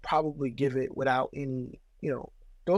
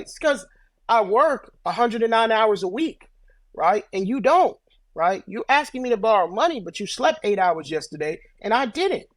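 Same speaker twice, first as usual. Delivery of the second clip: acted indignation, pitched up; mild indignant rebuke; 5 semitones higher, 4 dB louder than usual. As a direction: mildly tell off a relative asking for money. Acted rebuke to relatives asking money.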